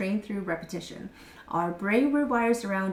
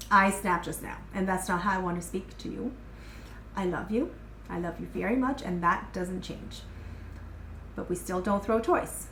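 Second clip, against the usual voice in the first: calm, grounded apology. Shown as a demonstration. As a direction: own the mistake gently to the child. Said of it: "it's very clear, it's very grounded".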